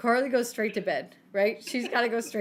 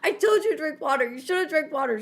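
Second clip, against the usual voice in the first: retold yell, higher-pitched scolding; Ted; 5 semitones higher, 3 dB louder than usual. Retelling Ted scolding the sick woman, mock yelling. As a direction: imitate someone yelling I-told-you-so. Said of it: "Ted's yelling at her".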